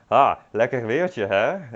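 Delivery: mock-frustrated groan at the rain. Shown as a demonstration. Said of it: "in a frustrated tone of voice".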